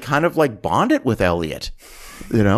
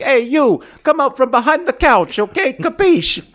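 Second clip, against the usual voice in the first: loud, very high calling out; mock translating shout; 5 dB louder than usual. Cop yelling to an Italian speaker behind the couch, mock shout. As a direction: yell it as if volume translates, hammed up. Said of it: "how does Chris Penn try to translate".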